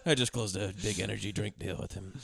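quiet, laughing sad repeat. Retold or imitated. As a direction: mope through it while laughing. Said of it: "He says that very sad".

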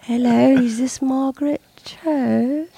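slow, hushed, almost whispered "is this"; hushed caller imitation. Host imitating the famous guest calling her, slow and hushed. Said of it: "and he goes".

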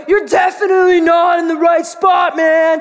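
retold yelling. Crazy guy to trespassers at the lake, retold yelling. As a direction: imitate an irate local warning off intruders. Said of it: "he's just yelling".

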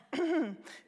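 a small embarrassed ahem; awkward throat clearing. Acted. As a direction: clear the throat to cover unease. Mother hesitates before answering.

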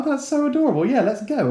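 high, loud, hammed-up cooing; mock-doting squeal of delight; gushing parent. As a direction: coo like a completely won-over dad. Acts out gullible doting dad.

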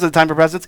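"time" stressed in a quick repeat, rising; repeated eager question. Retold or imitated. Child nagging parents at Christmas, rising question on "time". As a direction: ask it straight with a questioning lift. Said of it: "Maybe there's a different way I say it".

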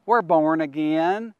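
put-on slow, lightly drawled Southern accent on born again; slow down and stretch We're born again like a Southern churchgoer. Preacher mimicking Texans for his viewers, light Southern accent. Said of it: "That's how they say it in the southern part of America".

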